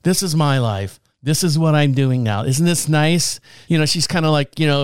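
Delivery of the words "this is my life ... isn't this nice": imitated broken wife, deadpan; dry and defeated, lightly acted. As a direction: mimic resigned despair, dead to camera. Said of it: "dead at the camera here".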